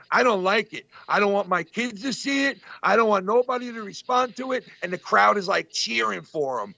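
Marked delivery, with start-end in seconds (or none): 0.1-4.6 imitating Dice. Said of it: "he's like".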